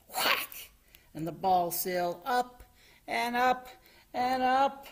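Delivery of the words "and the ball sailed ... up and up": rising pitch. A narrator's reading. Ball rising higher and higher.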